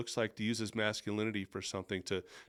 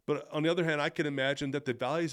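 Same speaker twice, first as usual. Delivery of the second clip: lively, not wooden; 3 semitones higher, faster than usual. Shown as a demonstration. Retaking the line for listeners, with more energy and punch. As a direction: put real life into "other". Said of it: "Don't make it wooden".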